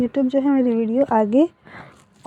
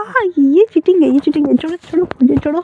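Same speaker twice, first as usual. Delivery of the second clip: higher, louder cry of cheating; playful protest; 5 semitones higher, 6 dB louder than usual. A narrator's reading. Boy grabbed by his partner, high loud protest. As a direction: squeal it out, caught and wriggling.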